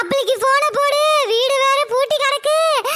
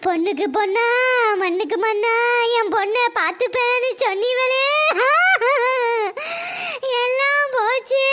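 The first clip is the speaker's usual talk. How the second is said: tearful lament. Acted. Mother laments missing daughter.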